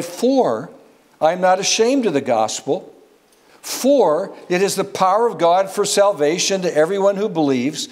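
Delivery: the word "For" leaned on each time it opens a clause; a reader pressing on "for" in scripture; stress on FOR. Shown as a demonstration. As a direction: hit "for" firmly whenever it comes. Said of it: "I sought to emphasize the word "for".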